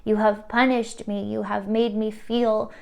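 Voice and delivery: acted outcry of hurt anger, stressed and loud-edged; voicing someone's wounded, accusing protest; anguished crying out. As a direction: plead in anger with the universe. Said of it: "they're crying out to the universe".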